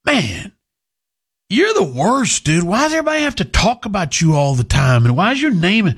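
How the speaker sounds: mock whiny listener. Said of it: "who will say".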